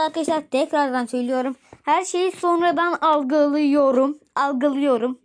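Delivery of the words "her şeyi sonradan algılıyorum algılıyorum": slow, drawn-out words; slow motion. Real, not acted. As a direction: stretch each word slowly. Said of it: "çok yavaş konuşmam gerekiyor".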